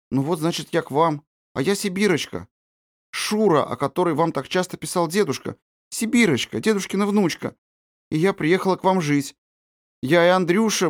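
put-on a girl trustingly introducing herself to her aunt; little Siberian girl.

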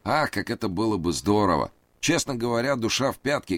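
high, anxious pleading man; nervous high voice. A narrator's reading. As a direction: raise the pitch, plead nervously. Reid voiced.

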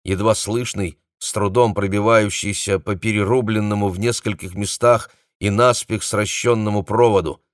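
ordinary delivery, nothing marked

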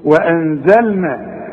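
وانزلنا slow with a light open و; model reading. Shown as a demonstration. Teacher modelling the light waw. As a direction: read وانزلنا slowly with a thin و. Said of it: "قلت وايه".

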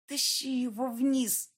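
slow, high command forced out through shut teeth; order through clenched teeth. Acted. Kristina orders the ghost through clenched teeth, slow and high. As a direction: grind the order out without opening the mouth, in pain. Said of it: "не открывая рта, приказала Кристина".

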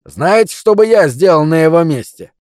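a rising, needling taunt; raising voice. Acted. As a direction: push the voice up with each word. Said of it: "всё более возвышая голос".

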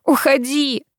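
high, choked command to leave; tearful order. A narrator's reading. Daughter sending mother away, choked tearful order. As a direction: push her away through tears. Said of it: "сквозь комок в горле".

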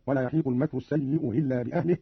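"السيء إلا" with the hamza of "إلا" eased, almost hilla; softened second hamza. Shown as a demonstration. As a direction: ease the glottal stop opening "إلا". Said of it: "بتسهيل الهمزة الثانية".

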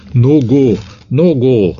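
high, loud desperate shout of a name; frantic shout. Acted. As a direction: yell his name in despair. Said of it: "ordítok".

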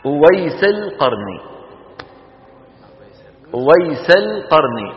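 slow ويسل قرني as "Uwaysu l-Qarni"; original full name. Shown as a demonstration. Teacher reveals the name's Arabic origin, slowly and fully articulated. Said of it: "تعرفوا شو هذا ويسل؟".

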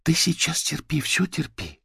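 high gentle urging voice; high coaxing. A narrator's reading. Manya keeps coaxing the creature. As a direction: coax it to endure. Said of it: "продолжала та".

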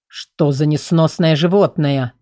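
чуть ниже и медленнее, с оттенком рыка; проворчать с раздражением, но сдержанно; лёгкое рычание. Acted. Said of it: "прорычал один из мужчин". (стражник злится на кошку: сдержанный рык)

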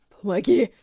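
отчаянная мольба с подъёмом на «мне»; взмолиться о помощи. A narrator's reading. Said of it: "взмолился". (старик молит медсестру о помощи, отчаянно)

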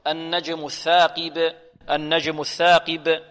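slow recitation, ب of الثاقب stopped and bounced; qalqalah on bā'. Shown as a demonstration. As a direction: end الثاقب on a small echoing release of "b". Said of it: "نسكن ونقلقل".

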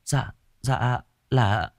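slow, soft hesitant stammer; falter, unsure what to say; frightened girl stammering before the mother. Acted. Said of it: "Hương ấp úng".

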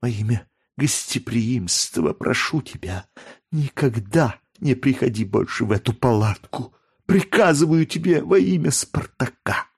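put-on understated breathless girl forbidding him; breathless command. A narrator's reading. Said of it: "сказала задыхающимся голосом".

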